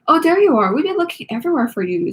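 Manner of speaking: panting after running; breathless from rushing around; out of breath. Acted. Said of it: "Zoe panted".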